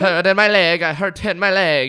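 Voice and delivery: loud, high mock Swedish-Jamaican accent; hammed-up cry in a muddled Jamaican-sounding accent; attempted Swedish accent gone Jamaican. Officer crying out over his leg, muddled Swedish-Jamaican accent. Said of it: "That's Jamaican".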